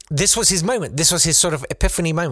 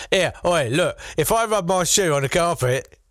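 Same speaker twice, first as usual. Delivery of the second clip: lightly voiced Massachusetts father, higher; a hint of a Boston-style dad; Massachusetts accent; 5 semitones higher than usual. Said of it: "so that's authentic now".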